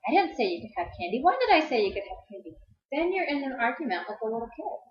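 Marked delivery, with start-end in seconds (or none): 0.0-2.5 arguing parent. Retold or imitated. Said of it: "You don't say".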